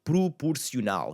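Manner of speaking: "Proporcional" starting "proo-poor"; oo in the first syllables of "Proporcional". Shown as a demonstration. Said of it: "that oo sound again".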